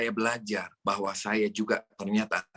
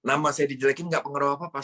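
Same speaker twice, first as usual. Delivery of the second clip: faster and a bit higher, driving it home; quicker emphatic repeat; 4 semitones higher, faster than usual. Shown as a demonstration. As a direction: restate it briskly with conviction.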